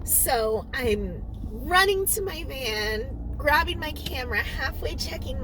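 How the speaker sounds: hiccupy retelling; words jolted by hiccups. Real, not acted. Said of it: "I have the hiccups this morning".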